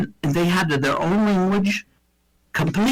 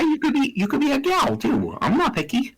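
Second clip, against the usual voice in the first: mock flirty; 10 semitones higher than usual. Teasing friend in a high voice.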